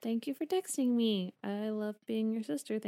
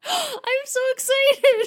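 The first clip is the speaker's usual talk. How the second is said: excited; 12 dB louder, slower than usual. Real, not acted. Gasps, hears musical is done.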